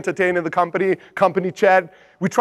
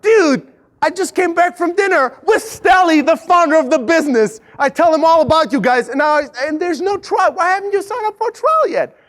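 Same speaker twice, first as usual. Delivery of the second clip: exasperated shout; 7 semitones higher than usual. Retold or imitated. Intern calling the prospect back, exasperated shout. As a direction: demand why they stalled. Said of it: "he's like".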